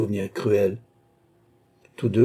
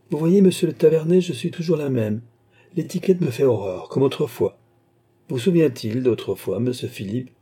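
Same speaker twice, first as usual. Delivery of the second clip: lightly voiced queen, higher at first; lively queen, familiar; 4 semitones higher than usual. Queen recalling old times to Philippe, lively. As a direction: speak as a spirited, friendly queen.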